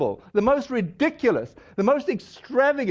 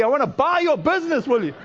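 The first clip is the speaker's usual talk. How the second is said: mock exasperated demand, pitched higher; higher, insistent retold caller; annoyed; 4 semitones higher than usual. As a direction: imitate a fed-up buyer pressing the offer. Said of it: "he's really getting annoyed".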